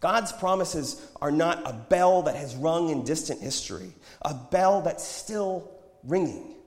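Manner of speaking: high, urgent preaching that softens at the end; impassioned prophet. A narrator's reading. Prophet urges the group to hear God's call, impassioned. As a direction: implore them to listen.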